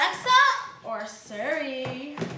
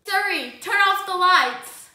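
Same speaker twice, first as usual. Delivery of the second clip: commanding voice; 3 semitones higher, 6 dB louder, slower than usual. Real, not acted. Giving the assistant a command.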